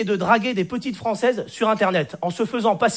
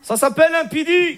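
put-on higher, amused Arab-accented punchline; 4 semitones higher than usual. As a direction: say pédé in a thick Arab accent. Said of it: "l'accent arabe".

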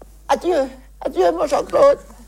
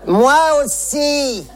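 put-on old lady voice. Old lady on phone to daughter.

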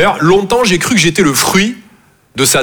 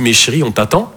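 put-on girlfriend calling; 8 semitones lower than usual. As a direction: lower and hushed, a bit put out. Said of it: "elle me dit".

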